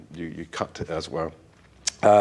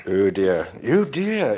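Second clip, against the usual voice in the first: mock English accent; 3 dB louder, much slower than usual. Scottish writer caught putting on English accents, mock English dismay. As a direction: put on an exaggerated English accent. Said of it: "you go into an Eng-, English accent".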